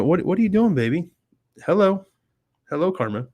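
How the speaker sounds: high cooing pet voice. Real, not acted. Cooing at the cat.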